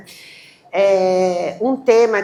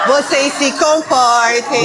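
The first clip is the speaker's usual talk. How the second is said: loud, slow, laughing reprimand; mock scolding; 3 semitones higher, 8 dB louder, slower than usual. Host tells the audience to behave, loud mock telling-off. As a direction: playfully lay down the law, drawing it out.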